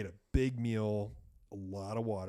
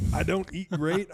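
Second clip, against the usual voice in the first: usual speaking voice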